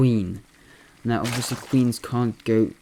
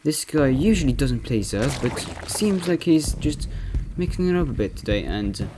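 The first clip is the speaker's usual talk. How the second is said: lightly imitated esports caster; Loco impression. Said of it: "I'm gonna be impersonating Loco".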